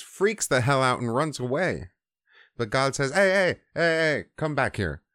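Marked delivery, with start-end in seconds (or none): 3.1-5.0 raised, louder retold call; calling someone back. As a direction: call after someone running away. God calls fleeing Moses back.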